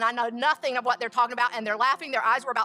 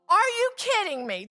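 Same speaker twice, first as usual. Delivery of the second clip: high incredulous "are you kidding me"; disbelief; 9 semitones higher, 4 dB louder than usual. Retold or imitated. To the young man in the market, high incredulous disbelief. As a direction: let the disbelief jump out high.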